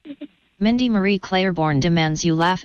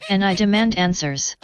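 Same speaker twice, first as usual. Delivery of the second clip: flat robotic AI Karen voice. Acted. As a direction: speak like a complaining robot. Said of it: "My name is A I Karen".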